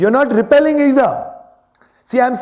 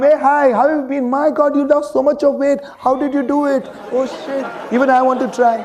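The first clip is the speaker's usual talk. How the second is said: higher, excited social chatter; gushing party guest; 4 semitones higher than usual. Acted. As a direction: gush over a friend at a party. Acted gushing party small talk.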